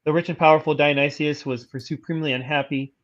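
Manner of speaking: even, measured encyclopedia read; steady informational narration; reading aloud. Real, not acted. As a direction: read the article out formally. Reads an article aloud.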